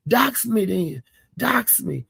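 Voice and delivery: high-pitched taunting dare, imitating Cupcake; mock taunt. Retelling Cupcake taunting eighty-eight, high mock dare.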